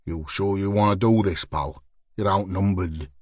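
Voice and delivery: low sneering threat. Acted. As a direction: sneer it out, daring him. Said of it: "screwed his face into a sneer".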